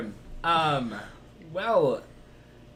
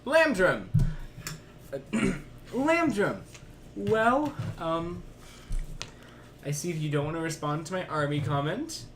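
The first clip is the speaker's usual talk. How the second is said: sneering panto villain; 2 semitones higher, 3 dB quieter than usual. Acted. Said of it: "so then I say".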